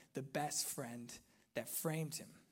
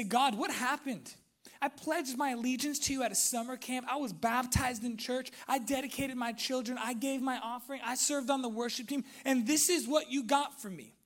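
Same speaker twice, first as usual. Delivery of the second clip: raised, high, fast list of grievances; aggrieved complaint; 7 semitones higher, 6 dB louder than usual. Acted. Believer to God after years of faithful service, acted indignation.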